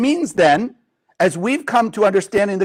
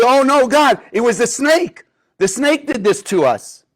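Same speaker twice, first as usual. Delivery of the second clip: Eve's mock panic; 5 semitones higher than usual. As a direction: panic first, then point at the snake. Eve caught, blaming the snake.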